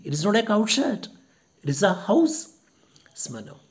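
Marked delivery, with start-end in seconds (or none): 0.1-2.4 higher, louder indignant reproach. Retold or imitated. Widow indignantly scolding Smirnov for shouting. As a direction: put him in his place. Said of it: "gets angry".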